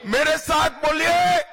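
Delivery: high shouted call; rally the crowd to join; roaring rallying speech. Real, not acted.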